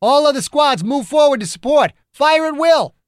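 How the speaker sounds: very high, loud order rising to the end; shouted command. A narrator's reading. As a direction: drive the squads forward at full voice. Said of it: "Ogden shouted".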